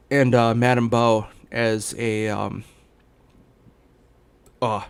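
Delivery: talking through hiccups; words broken by hiccups; hiccuping. Real, not acted. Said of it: "I'm hiccuping so bad".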